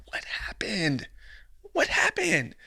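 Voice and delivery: whispered, unvoiced aside; mock whisper. Mocking the man in a whisper. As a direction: drop to a whisper.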